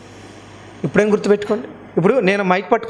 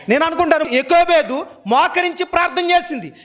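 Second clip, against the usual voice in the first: high-pitched, sustained sermon delivery; urgent exhortation held high; forceful preaching; 6 semitones higher than usual. Real, not acted. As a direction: preach it out, driving each clause home.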